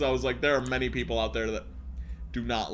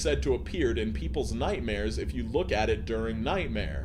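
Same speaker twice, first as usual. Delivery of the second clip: measured read-aloud of a creepy tale; horror story narration. Acted. Reads horror story aloud to stream.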